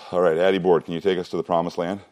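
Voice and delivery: winded after talking; breathless, catching breath. Real, not acted. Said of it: "I'm out of breath".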